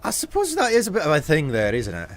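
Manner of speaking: imitated Scottish accent. Shown as a demonstration. Streamer explaining the angry eyebrows, in a Scottish accent. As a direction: reason it out in put-on Scots. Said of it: "are for the Scottish accent".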